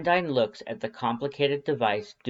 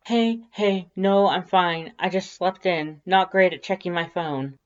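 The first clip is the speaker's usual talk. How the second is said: much higher, louder, rushed reassurance; panicked, talking fast to calm him; flustered; 8 semitones higher, 6 dB louder than usual. Acted. The narrator calling Sans back, flustered and high.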